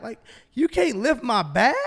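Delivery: high, rising incredulous question; retold disbelief, pitch climbing at the end. Passenger complaining about an Uber driver, incredulous.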